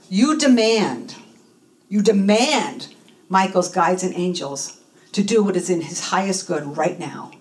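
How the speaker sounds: slow, firm instruction, easing at the end; imitating a coach's firm command; strong demanding voice. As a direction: spell out the demand with deliberate weight. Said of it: "with a strong voice".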